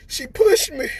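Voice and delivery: crying. Real, not acted. Tearful thanks to his wife.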